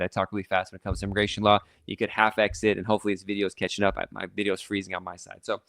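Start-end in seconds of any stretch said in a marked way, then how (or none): 0.0-1.6 talking fast. Real, not acted. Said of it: "I hear myself talking really fast".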